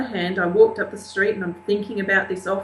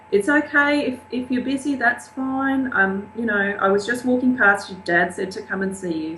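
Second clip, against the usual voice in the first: reassuring; 4 semitones higher than usual. Retold or imitated. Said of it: "try and bring down the level of anxiety".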